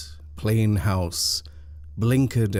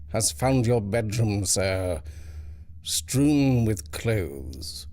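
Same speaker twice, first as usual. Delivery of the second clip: detached; 2 semitones higher, slower than usual. Acted. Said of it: "with detachment, as though ... a fly".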